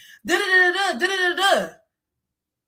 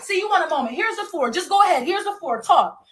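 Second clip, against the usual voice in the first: taunting quote; 3 semitones higher than usual. Retold or imitated. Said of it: "That's how she meant it".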